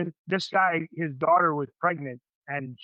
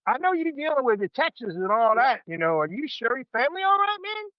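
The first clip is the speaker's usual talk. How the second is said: hearty check-in call; 8 semitones higher than usual. Retold or imitated. Calling a buddy to check.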